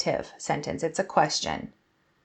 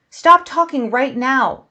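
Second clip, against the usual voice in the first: louder, slow, firm "Stop talking right now."; exclaimed command; 5 semitones higher, 6 dB louder than usual. Shown as a demonstration. Teacher ordering a chatty student, firm and loud. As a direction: give a stern order to stop. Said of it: "I'm exclaiming it".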